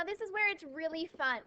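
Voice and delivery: mock enthusiasm for a tedious task; dryly overselling the fun; sarcastic. Real, not acted. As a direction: say it as if it were fun, not meaning it. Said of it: "I'm being sarcastic".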